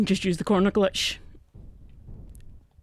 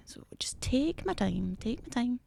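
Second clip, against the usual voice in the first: quiet, slow self-reassurance; steady yourself softly, stretching the words; self-calming; 3 semitones higher, 8 dB quieter, slower than usual. Real, not acted. Calming self before careful play.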